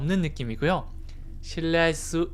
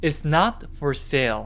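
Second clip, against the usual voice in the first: strong stress on the word not; 2 semitones lower than usual. Teaching stress on english negative words: stress on not. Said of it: "납부분에 강하게 강세를 주시면 돼요".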